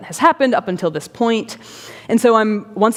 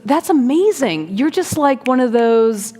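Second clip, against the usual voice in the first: higher-pitched imitation of admiration; admiring; 4 semitones higher than usual. Older gentleman praises the storyteller's writing, admiring. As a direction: play a mildly awed new acquaintance.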